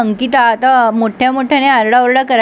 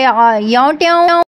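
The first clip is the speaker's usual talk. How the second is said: Hetal's pet word; slower than usual. Retold or imitated. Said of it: "असाच काहीतरी शब्द वापरते ती".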